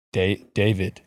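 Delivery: very slow, hushed mock shaman; a lightly put-on guru offering the drink. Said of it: "enough Aussie accents for a day".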